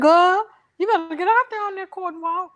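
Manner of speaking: sassy mama. Retold or imitated. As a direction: mom ordering her daughter out. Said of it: "And she said".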